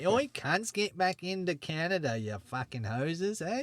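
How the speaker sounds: high-pitched mock Aussie, slowing at the end; a soldier without his voice machine yells at prisoners in a high mock Aussie voice; high nasal Aussie soldier. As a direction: pitch it up and push it through the nose. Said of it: "nasally up".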